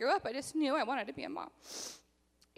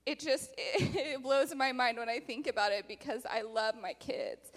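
laughing through tears. Real, not acted. Overwhelmed mother laughing through tears.

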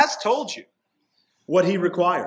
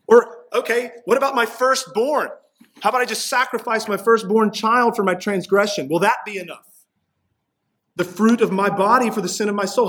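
higher, mock-desperate bargaining with God; sarcastic people; 5 semitones higher, 3 dB louder than usual. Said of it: "and even some sarcasm".

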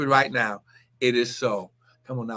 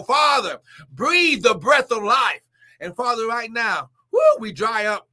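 fervent healing prayer. Real, not acted. Preacher praying over the sick, fervent prayer. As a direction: pray with rising fervor.

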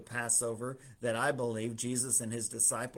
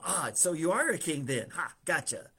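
smug gotcha; 4 semitones higher, 4 dB louder than usual. Retold or imitated. Pilate thinks he's caught him.

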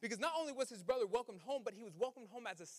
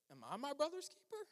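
dismissive shrug; 6 semitones higher than usual. Retold or imitated. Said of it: "we say".

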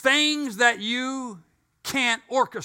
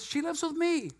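laughing; 8 semitones higher, 4 dB quieter than usual. Retold or imitated. Laughing at his own punchline.

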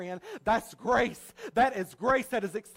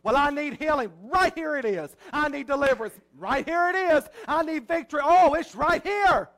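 building preacher's cry; 3 semitones higher, 5 dB louder than usual. Real, not acted. Preacher building to a shout for his congregation. Preacher's call and answer at climax.

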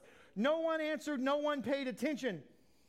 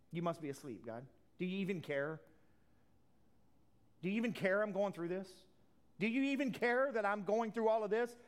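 frustrated plea. Retold or imitated. Voicing a frustrated believer.

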